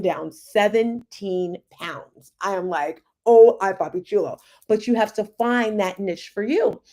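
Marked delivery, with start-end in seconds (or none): 3.3-4.4 sassy. Acted. Boasting after weight loss.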